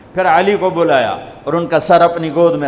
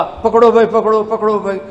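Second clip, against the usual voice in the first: high, loud retold call; urgent calling out; 5 semitones higher, 4 dB louder than usual. Prophet handing the child to companions, urgent call. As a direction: call out repeatedly in acted urgency.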